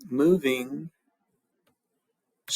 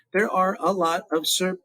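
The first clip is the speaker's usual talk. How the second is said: counting syllables; slower than usual. Shown as a demonstration. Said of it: "and I've got four".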